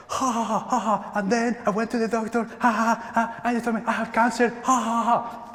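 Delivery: high, fast, giggling retelling; a man laughing off his own cancer news; laughing through the story. Retold or imitated. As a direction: tell it with bursts of laughter, high and quick. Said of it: "He was like".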